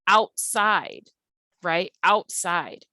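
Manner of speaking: "outside" with both halves long and stressed; two stressed syllables. Shown as a demonstration. Teacher sounding out an example word, "outside" evenly stressed on both syllables. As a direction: give "out" and "side" equal weight in "outside". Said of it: "long syllables".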